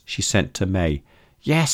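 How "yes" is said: high, sharp scream of yes. A narrator's reading. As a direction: shriek it in panic. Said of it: "screamed May".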